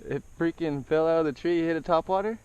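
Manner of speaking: loud, high, excited voice. Real, not acted. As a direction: tell it thrilled. Retelling the catch excited.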